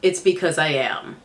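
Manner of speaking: stuffy, blocked-nose voice; talking through a head cold; congested. Real, not acted. Vlogger with a cold tells viewers why she sounds congested. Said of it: "I might sound a little congested and nasally".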